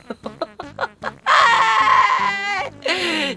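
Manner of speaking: shrieking burst of laughter; high squealing laugh; laughing fit. Real, not acted. Bursts out laughing mid-story.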